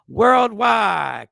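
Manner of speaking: loud hype call; hyped shout. Real, not acted. Host hyping his global audience, loud shout. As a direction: shout it out to the whole world.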